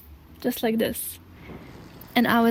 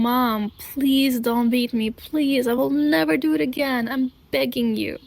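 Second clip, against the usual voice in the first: pleading; 2 semitones higher than usual. Retold or imitated. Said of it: "I was begging".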